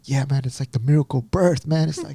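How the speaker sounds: lightly imitated excited buddy, pitch climbing; awed friend. Friend urging him to watch the birth, lightly imitated awe. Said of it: "one of my friends".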